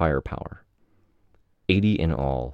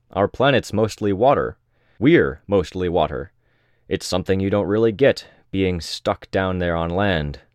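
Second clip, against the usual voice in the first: raised voice; 3 semitones higher, 4 dB louder than usual. Acted. Legend speaking down from above.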